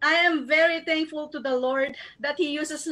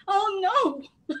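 a higher, teary outburst as emotion spills over; real choked-up oh no from being overwhelmed; emotional cry; 6 semitones higher than usual. Real, not acted. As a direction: break down for a moment, overwhelmed. Overwhelmed recalling trip to Seoul.

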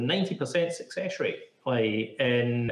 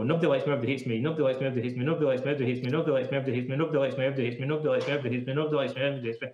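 rapid repetition; much faster than usual. Shown as a demonstration. Therapist demoing fast repetition to podcast host, rapid. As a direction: rattle it off fast, over and over. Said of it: "repeat it really fast out loud".

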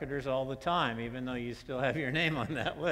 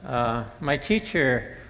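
put-on higher, louder eager little boy; child voice; 4 semitones higher, 13 dB louder than usual. Great-grandson asking Papa for homework help, high and eager. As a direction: play the boy pleading with his great-grandpa.

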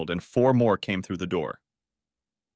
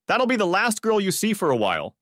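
a mild mock roar, higher; 10 semitones higher than usual. Policeman shoving Tom against the door, roaring. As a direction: growl it at the suspect. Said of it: "The policeman roared".

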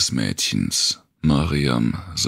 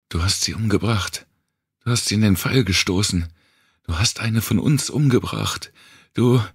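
rising higher into an accusing shout; accusing cry; 7 semitones higher than usual. Acted. Mariam accuses Wanda of murder, voice rising. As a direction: hurl the accusation, voice climbing. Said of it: "erhob Mariam anklagend die Stimme".

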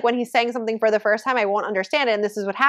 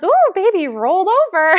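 high, excited little-kid imitation; amazed toddler; 9 semitones higher, 6 dB louder than usual. Toddler watching baby brother roll over, imitated high and excited. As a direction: marvel at it like a small child. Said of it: "Julian goes".

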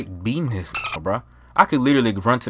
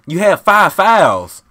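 slow, louder, higher scolding; angry scold; 7 semitones higher, 6 dB louder, much slower than usual. Real, not acted. Gamer scolding his friend about fouls, slow angry scold. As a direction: spell out each word, seething.

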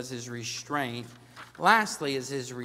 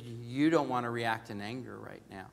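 soft inner voice; 3 semitones lower, 5 dB quieter than usual. Retold or imitated.

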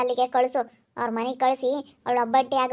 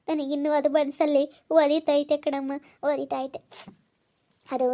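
tearful regret. Acted. Mother-in-law regretting past treatment of Preethi, tearful. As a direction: confess remorse through tears. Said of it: "ಅಳ್ಬೇಡ್ರಿ".

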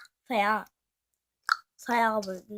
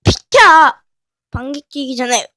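much louder, barked order; angry shout; 20 dB louder than usual. Acted. A kid yelling at someone blocking the way, furious shout. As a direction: shove them aside with your voice.

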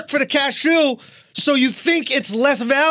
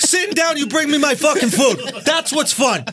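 worked-up rant in an Italian-sounding accent; higher-pitched, accent creeping into the complaint; slipping into another accent; 4 semitones higher than usual. Real, not acted. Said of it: "I don't know what accent you're talking in".

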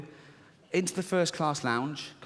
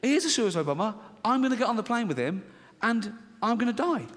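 panicked thought; 6 semitones higher, faster than usual. Retold or imitated. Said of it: "and I think".

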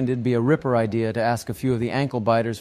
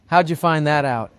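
higher, louder astonished question; gobsmacked; 4 semitones higher, 6 dB louder than usual. A narrator's reading. Mum is stunned Johnny knows her age, gobsmacked question. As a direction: ask it in raised-pitch amazement. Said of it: "The mom's gobsmacked".

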